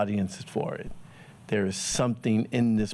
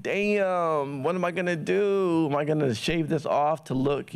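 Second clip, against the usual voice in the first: retold panic; 7 semitones higher than usual. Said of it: "and I'm like".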